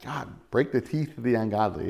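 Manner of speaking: soft, mock-tender plea; gentle tongue-in-cheek prayer; loving prayer. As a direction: pray for their teeth sweetly, half joking. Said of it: "in a loving way".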